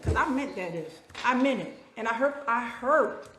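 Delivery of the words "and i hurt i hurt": Texan accent slipping in; a Texan twang on the words. Real, not acted. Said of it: "Oh, I'm talking like a Texan".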